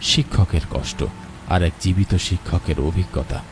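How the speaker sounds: calm, measured storyteller voice; wistful story narration over music. A narrator's reading. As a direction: set the scene like a radio drama narrator.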